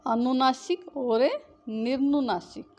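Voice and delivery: says each term slowly and clearly for students; drawn-out, careful teacher pronunciation; slow dictation. Shown as a demonstration. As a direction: spell the words out slowly by voice. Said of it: "अनुनासिक और निर्नुनासिक (teacher says the terms, then repeats them)".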